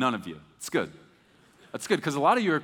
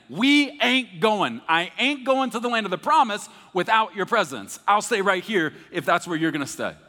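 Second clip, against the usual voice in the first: defiant refusal; 6 semitones higher, 6 dB louder than usual. Retold or imitated. Moses refusing to go without God, defiant and loud. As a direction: plant your feet and refuse.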